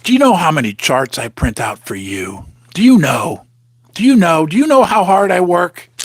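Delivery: playing the voice in his head that nags him; a hint of a put-upon scold; nagging inner voice. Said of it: "sounds like somebody I know. That voice inside my head".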